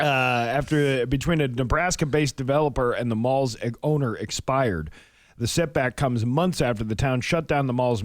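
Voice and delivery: steady, even news-reading delivery. Acted. Radio host reading mall closure story, news read. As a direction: read the local news copy straight through.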